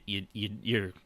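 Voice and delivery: usual speaking voice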